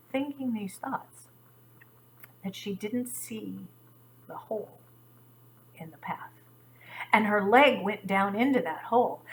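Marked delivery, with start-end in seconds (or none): 0.1-6.3 hushed suspense. A narrator's reading. Storyteller hushing children before the fall, fading to quiet. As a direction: let it fade toward the hole.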